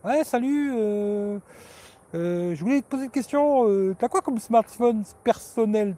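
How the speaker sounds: high, eager fan voice; fan asking a question. Retold or imitated. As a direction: play an eager young fan. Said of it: "Et vous allez les voir".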